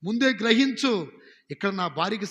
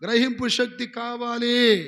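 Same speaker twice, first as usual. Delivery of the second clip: congregation shout; 2 semitones higher, 4 dB louder, slower than usual. Shown as a demonstration. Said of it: "గట్టిగా చెప్పండి".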